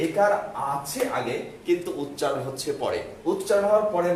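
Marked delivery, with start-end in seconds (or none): 0.1-1.4 একার আছে আগে, spoken slowly and evenly; slow down so they remember it; slow emphasis. Shown as a demonstration. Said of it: "কিন্তু মনে রাখতে হবে". (ধীরে ধীরে মনে রাখার মতো করে বলা)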